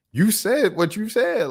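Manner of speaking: high, slow, pointed; pointed retort. Real, not acted. Host scolding the podcaster, slow and pointed. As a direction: drag it out like a final word.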